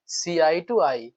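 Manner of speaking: very slow, each word spaced out; "see eye to eye" drawn out slowly word by word; slow repeat. Shown as a demonstration. Teacher repeating the idiom very slowly for students. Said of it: "एकदम देख करके ही ईडीएम को".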